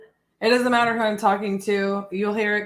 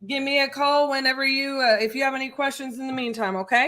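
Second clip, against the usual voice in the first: light Southern accent, mirroring the client; 4 semitones higher than usual. Real, not acted. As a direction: talk to the seller with a Southern lilt. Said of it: "you mirror the thick Southern accent".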